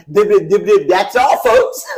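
mock cartoon stammer; cartoon sign-off. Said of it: "I grabbed the microphone, I went".

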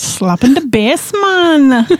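lightly imitating a laid-back dude; Paul Rudd bass-slapper. Co-host recalls a movie scene, quoting it in a mild mock dude voice. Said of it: "You sound like Paul Rudd in I Love You Man".

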